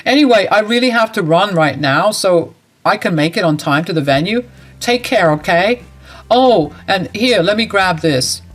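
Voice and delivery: flatly turning his mother away. Acted. Ned leaves, takes phone.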